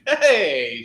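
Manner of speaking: loud, drawn-out hey; retold call-out. Greeting a neighbor outside the liquor store, loud call-out. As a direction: call out to someone you bump into. Calling out to acquaintance in public.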